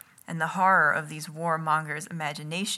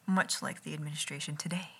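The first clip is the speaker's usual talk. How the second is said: snide whispered aside; a sly whispered jab at the government; 7 dB quieter than usual. Real, not acted. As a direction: drop to a whisper for the dig.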